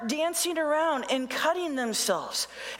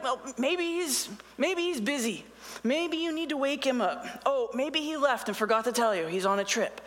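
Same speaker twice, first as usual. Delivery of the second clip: sarcastic. Retold or imitated. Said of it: "he is literally being sarcastic".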